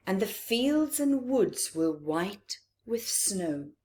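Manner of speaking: lilting storybook read-aloud; gentle bedtime-story telling; reading to children. A narrator's reading. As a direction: read it to a room of little ones. Reads picture book aloud.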